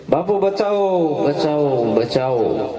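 high, slow frightened cry for help that fades; pleading mouse. Acted. Mouse begs guru for help. (ગભરાયેલા ઉંદરની આજીજી)

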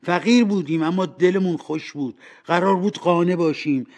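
emphatic lovers' reproach; reproachful. Acted. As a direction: press the broken promise on him. Fiancée reproaches him in a quarrel.

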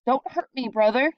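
warning. A narrator's reading. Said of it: "he warned".

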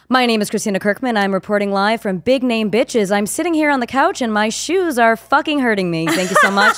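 upbeat news reporter read. Pretend. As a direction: sign off like a TV reporter. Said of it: "do, do the thing".

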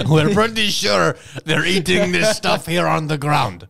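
mock Russian spy. Russian spies voiced.

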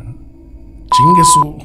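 exasperated curse. Acted. Curses at forgotten package.

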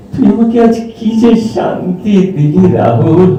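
high, emotional gratitude; heartfelt relief. Acted. Friend finally grants his last wish.

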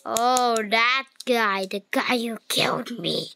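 a hint of a demonic voice; lightly voiced demon, half-playful. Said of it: "I used my demon voice again".

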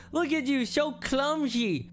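laughing at his mess; mocking laugh. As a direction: jeer and drag out so clumsy. Bully mocks him, laughing.

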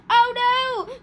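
loud, high cry of dismay; shouted. A narrator's reading. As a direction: shout in storybook panic. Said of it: "Cosmo shouted again".

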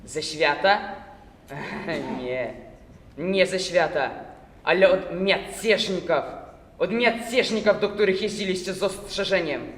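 taunting Cossack, hissing words apart; slow, mocking, syllables split. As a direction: sneer and spell out every syllable. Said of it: "mówił zwolna, dzielił sylaby wyrazów".

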